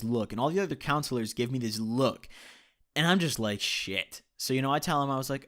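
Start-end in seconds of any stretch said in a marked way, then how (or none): 3.6-4.2 breathy whispered "Shit"; hushed dismayed curse. Retold or imitated. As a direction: mutter it under your breath, caught out. Realising he's in trouble.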